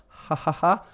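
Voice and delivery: a half-hearted mock laugh out of politeness; forced laugh to be nice, no real amusement; polite fake laugh. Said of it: "I laughed out of politeness".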